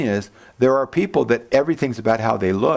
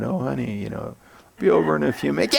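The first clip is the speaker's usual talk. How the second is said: soothing husband; 3 semitones higher than usual. Retold or imitated. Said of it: "stroke your wife on the head".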